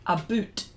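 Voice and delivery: 'a boot' with a rounded oo vowel; Nova Scotia 'about'. Shown as a demonstration. Host showing how Nova Scotians say about, 'boot' with long oo. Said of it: "In Nova Scotia, it's almost like".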